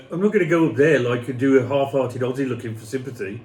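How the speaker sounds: put-on Birmingham accent. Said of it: "Can you do that again in a Birmingham accent?".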